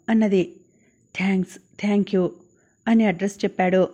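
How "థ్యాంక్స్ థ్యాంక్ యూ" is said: breathless whisper of gratitude; a sick student whispering thanks to his teacher. A narrator's reading. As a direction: murmur the thanks under your breath. Grateful student thanks quietly.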